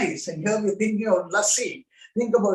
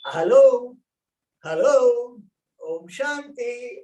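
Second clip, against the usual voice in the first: playful phone greeting; 2 semitones higher, slower than usual. Shown as a demonstration. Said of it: "Use this and say".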